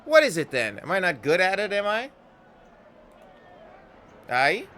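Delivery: stung pride flaring; hurt, angry Anna. Acted.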